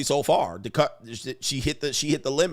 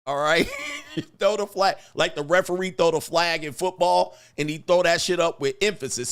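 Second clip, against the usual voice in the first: normal talking voice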